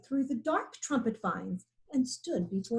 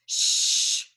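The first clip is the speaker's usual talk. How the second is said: breathy warning shh; hushing shh; 4 dB louder than usual. A narrator's reading. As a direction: hush your friends urgently. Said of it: "said Hornbill".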